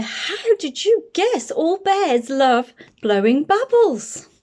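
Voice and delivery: slow, gentle big bear voice. Acted. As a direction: drawl it out like a friendly big bear. Bear character speaks.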